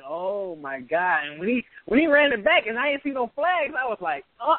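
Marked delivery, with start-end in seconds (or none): 0.1-1.2 slow, stretched mock announcer cry; drawn-out country announcer. Mimicking the excited country announcer on the call, slow and stretched. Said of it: "He was country as hell, but he was just so excited".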